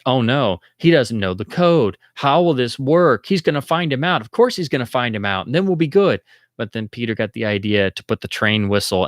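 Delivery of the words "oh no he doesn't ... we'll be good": lightly raised, anxious viewer voice, rising on he's; fretting along with the movie; mock worry. Viewer frets that Grant will be exposed, mock anxious. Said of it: "And you're like".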